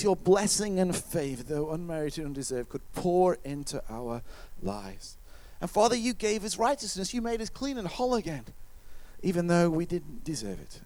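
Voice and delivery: earnest public prayer in connected phrases. Real, not acted. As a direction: lead the congregation in sincere thanks, easing down at the close. Leads a prayer.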